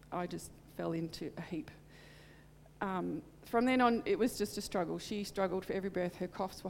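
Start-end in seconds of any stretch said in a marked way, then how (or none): 0.1-1.7 barely voiced whisper; breathless whisper as she remembers breaking down. Real, not acted. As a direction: let the words drop to a whisper. Breaking down, recalling.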